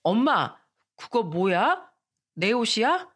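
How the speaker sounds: mild surprise asking mom; a touch of wide-eyed wonder; surprised question. Retold or imitated. Girl asks mom about new clothes, mildly surprised. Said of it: "놀란 목소리로 물었어요".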